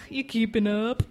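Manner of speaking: lightly voiced old lady; old lady Carrie. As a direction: lightly put on an old lady's voice. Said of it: "Old lady Carrie".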